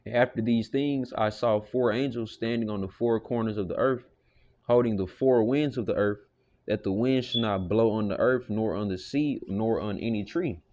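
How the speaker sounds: understated scripture recital; scripture reading. Acted. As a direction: read the verse out to the flock. Reads Revelation aloud.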